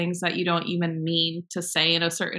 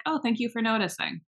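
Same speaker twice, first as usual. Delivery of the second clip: higher-pitched mock appreciation; sarcastic thanks; 5 semitones higher than usual. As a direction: thank them as if flattered. Retorting to rude commenters.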